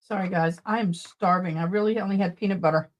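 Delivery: talking through a bite of steak; eating while talking; mouth full. Real, not acted. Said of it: "I'm gonna take a bite".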